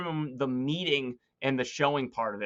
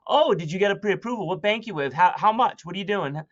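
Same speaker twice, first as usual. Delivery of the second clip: rapid-fire probing questions, higher; pushy prying; 5 semitones higher than usual. Shown as a demonstration. Agent grilling buyer on phone, pushy and prying. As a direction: dig in too hard, like an interrogation. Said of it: "you're digging in too much".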